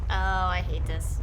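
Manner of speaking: real frustration, said loudly; fed-up. Real, not acted. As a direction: groan it out, genuinely annoyed. Passage rotates, player reacts.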